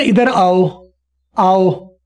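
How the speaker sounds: «आओ» as in Urdu, an open long a gliding into o; Urdu aao. Shown as a demonstration. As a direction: say «आओ» like calling someone over in Urdu. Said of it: "जो उर्दू में हम बोलते हैं ना".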